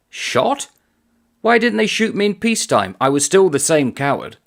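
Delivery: hammed-up astonishment at the threat; mock disbelief. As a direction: gunner answering the major, mock disbelief. Soldier's incredulous reply.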